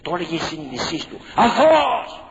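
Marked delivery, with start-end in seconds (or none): 1.3-2.2 loud, high cry; imitated wife's shout. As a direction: cry it out as the pleading wife. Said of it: "φώναζε η γυναίκα του". (δυνατή κραυγή της γυναίκας)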